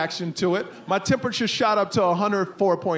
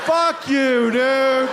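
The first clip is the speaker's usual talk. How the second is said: loud mock-angry insult; 4 semitones higher, 5 dB louder, much slower than usual. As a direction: snap it out, half laughing. Mock outrage at son.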